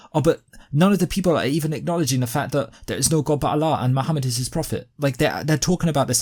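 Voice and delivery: put-on Dawa accent. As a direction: imitate an offended Muslim preacher's Dawa accent. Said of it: "They often talk like this".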